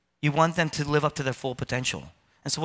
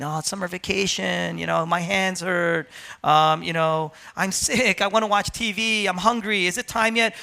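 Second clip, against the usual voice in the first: put-on higher, whiny voice of a reluctant child; whiny kid complaint; 5 semitones higher than usual. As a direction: whine like a kid avoiding practice. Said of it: "my son would complain".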